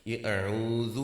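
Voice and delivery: اعوذ said with a clear ع and ذ; Arabic letters drawn out; pronouncing auzu. Shown as a demonstration. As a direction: sound out اعوذ carefully. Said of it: "ذرا دہرائیے".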